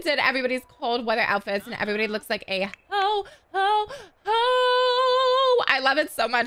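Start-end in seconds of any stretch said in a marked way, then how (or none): 2.9-5.6 rising high ho ho ho; a light Santa ho ho ho; Santa laugh. Pretend.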